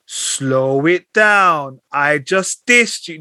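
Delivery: put-on slow, stretched-out American accent; imitating a rapper's slow American-accent tag line; drawled American catchphrase. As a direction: drag out each word in a mock American accent. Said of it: "when he went into American accent".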